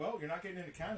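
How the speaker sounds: mock deadpan, flat and expressionless. Retelling a man who refused him entry to Canada, imitating a deadpan reply. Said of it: "Deadpan, absolute".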